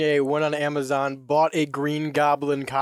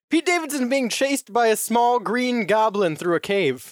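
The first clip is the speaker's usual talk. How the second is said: news headline read aloud, higher pitch; 5 semitones higher than usual. Acted. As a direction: announce it like a news item. Reads out a headline.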